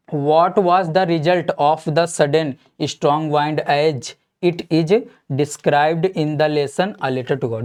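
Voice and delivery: very slow, word by word reading of the question; slow dictation read. Acted. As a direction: read it out slowly so students can write. Teacher dictates the question slowly.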